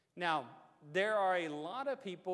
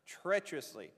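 "treacherously" set apart after a pause; pause, then land firmly on "treacherously"; emphasis on treacherously. Real, not acted. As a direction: make "treacherously" stand out as the key word. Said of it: "I'm trying to emphasize that word".

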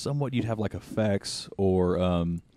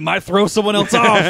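laughing; 8 semitones higher, 10 dB louder than usual. Real, not acted.

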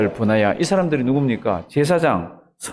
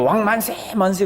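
higher-pitched imitated hurrah; mock acclamation; 5 semitones higher than usual. Followers hailing Adonijah as king, high mock cheer.

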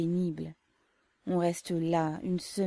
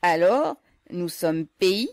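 delighted surprise; 10 dB louder, slower than usual. A narrator's reading.

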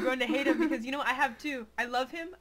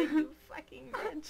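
mock insult; 4 semitones higher, 4 dB quieter, slower than usual. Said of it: "You can be joke around".

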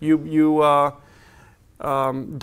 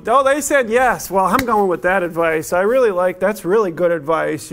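mock delighted advice-seeker; 3 semitones higher, 4 dB louder than usual. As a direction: gush over the answer you wanted. Mocking a person who hears yes.

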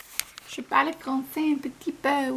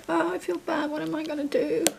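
mock whine; 3 semitones higher, 5 dB quieter than usual. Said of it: "If I'm like".

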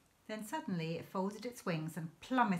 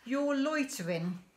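slow, higher, louder accusing voice; menacing keeper; 8 semitones higher, 6 dB louder than usual. A narrator's reading. Keeper accusing the poachers of loitering, menacing. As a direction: lean on each word like a bully.

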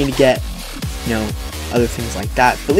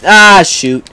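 loud, higher yelp of dismay; frustrated outburst; 6 semitones higher, 8 dB louder than usual. Real, not acted. Gamer caught out mid-play, frustrated outburst. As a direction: cry out at the mishap. Something goes wrong in game.

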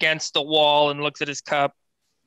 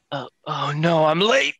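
sudden realisation, pitch leaping at the end; acted alarm. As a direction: realise you are late, voice shooting up. Oz realises he is late.

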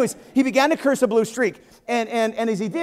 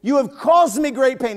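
accusing Ahab; 3 semitones higher, slower than usual. Acted. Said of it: "He's saying".

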